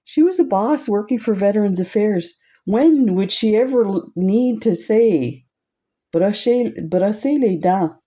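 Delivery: retelling his amused reaction to wife; amused disbelief. Retold or imitated. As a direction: ask it like it's absurd. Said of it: "I said".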